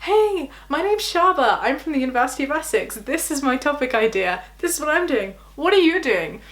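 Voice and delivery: friendly introduction. Retold or imitated. Student making friends at a first PhD conference, eagerly friendly. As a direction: imitate a keen, sociable self-introduction. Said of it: "goes out and makes friends".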